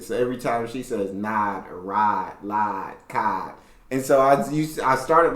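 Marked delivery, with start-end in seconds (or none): 1.1-3.5 imitated country accent with drawn-open I vowels. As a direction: say each word with a country "ah" vowel. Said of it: "she has a country accent".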